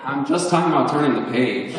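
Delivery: quick words bubbling with real laughter, pitch up; giggling while excusing herself; laughing through it. Real, not acted. Reader apologizing to the audience, laughing. Reader breaks up mid-excerpt.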